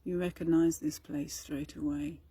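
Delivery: calm, even meditation delivery with long pauses; guided meditation. Acted. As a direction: gently guide listeners inward, leaving space between phrases.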